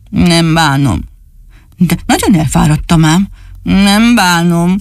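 lightly voiced sulky little boy; sulky doll voice. Dani answers the dog from the tree, lightly voiced sulking. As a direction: mope the words out.

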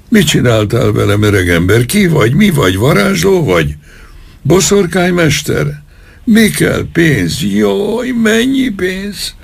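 high frantic questions in pain; high, panicked, pain-stricken pleading. A narrator's reading. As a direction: beg the sorcerer in terror. Terrified colonel pleading with sorcerer.

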